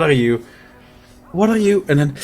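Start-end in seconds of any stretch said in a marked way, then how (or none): 1.3-1.8 high, rising alarm; panicked. Acted. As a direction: ask it again in sudden fear. NPC asks, then panics.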